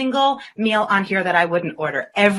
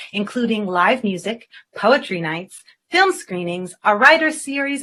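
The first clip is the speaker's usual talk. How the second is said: measured presenter read, phrases dropping at the ends; scripted guest introduction. Acted. Host introducing a cafe owner to viewers, polished presenter read. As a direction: read it out neatly, item by item.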